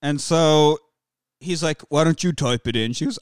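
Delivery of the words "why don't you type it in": lightly put-on Python-style British accent; a hint of comic sketch-show British; Monty Python British accent. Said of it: "like, a Monty Python British accent".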